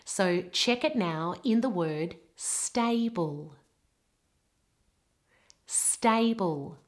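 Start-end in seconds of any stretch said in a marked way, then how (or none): 2.4-3.5 "stable" with A as a gliding double vowel. Shown as a demonstration. Teacher has learners check the word, double-vowel A in "stable". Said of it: "That is a double vowel". 5.7-6.8 "stable" with A as a gliding double vowel. Shown as a demonstration. Teacher has learners check the word, double-vowel A in "stable". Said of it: "That is a double vowel".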